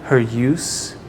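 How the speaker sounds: soft-spoken threat, holding a throat; menacing captor. Acted.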